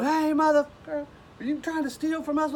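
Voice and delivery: high, loud retold shout at a suspected thief; retold yell. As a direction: bark it like an armed man catching a thief. Armed drunk man confronts them.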